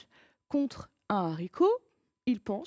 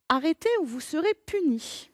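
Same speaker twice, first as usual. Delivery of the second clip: stern command; 5 semitones higher, 4 dB louder than usual. Acted. Reading a stern command aloud.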